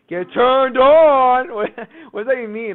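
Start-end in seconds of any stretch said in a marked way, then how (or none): 0.1-1.5 slow mocking quote of her; imitating her phrase. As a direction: drag out her catchphrase. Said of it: "what's the phrase you keep saying".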